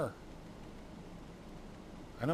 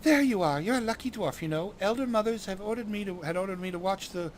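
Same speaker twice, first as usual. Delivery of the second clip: chirpy fairy; 3 semitones higher than usual. Acted. Fairy arrives to help dwarf.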